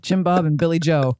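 hushed whisper of the names. Real, not acted. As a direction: whisper it like a secret. Teasing aside about the visitors.

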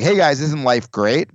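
mock-cheery greeting to the room; chipper. Comic greeting an open mic crowd, chipper.

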